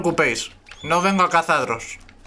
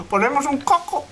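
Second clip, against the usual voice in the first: high mock suggestion; 10 semitones higher than usual. Joking about a poison coconut.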